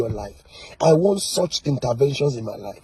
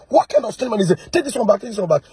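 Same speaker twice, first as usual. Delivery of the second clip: higher and louder, an incredulous cry of disbelief; mock astonishment; 6 semitones higher, 3 dB louder, faster than usual. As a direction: play the baffled attacker, half-mocking. Preacher mimics shocked attacker.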